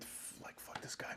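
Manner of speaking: muttered, whispered, very soft.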